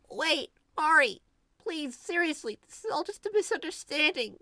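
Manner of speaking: put-on frantic girl at the door; desperate pleading girl. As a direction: beg her to listen. Aubrey begs at the door.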